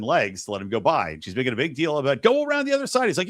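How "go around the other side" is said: retold high-pitched protest; imitating a fussy refusal, high; mock indignant. Woman refusing to let him by, mock indignant. Retold quarrel over aisle seat.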